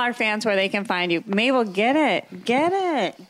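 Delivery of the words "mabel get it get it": cheering the dog on; egging her on excitedly; hype call. Real, not acted. Hyping dog to perform.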